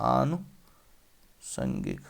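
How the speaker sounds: आनुषंगिक drawn out slowly, syllable by syllable; slow spelling demo. Shown as a demonstration. Teacher spelling a word slowly for students. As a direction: stretch out आनुषंगिक so students hear each part. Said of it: "बड़ा मात्रा लग जाएगा".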